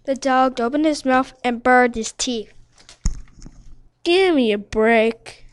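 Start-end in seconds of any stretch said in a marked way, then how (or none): 4.0-5.5 flea voice. A narrator's reading. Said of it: "said the flea".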